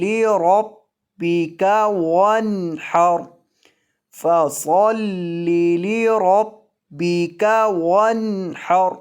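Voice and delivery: slow recitation, the ba in لربک held doubled and pressed hard. Shown as a demonstration. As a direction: lean on the ba of لربک with full shadda. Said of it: "سختی کے ساتھ پڑھنا ہے". (با مشدد کو سختی سے ادا کریں)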